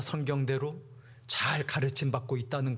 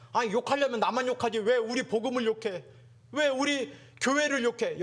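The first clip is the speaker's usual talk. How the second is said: indignant protest; 9 semitones higher than usual. Acted. Preacher voices Jeremiah's protest.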